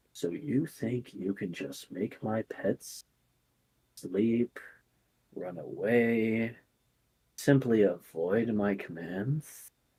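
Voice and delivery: very soft, hushed snake voice, away drawn out. A narrator voices a snake raising its head toward the players, snake's voice. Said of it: "you hear a voice come from the snake".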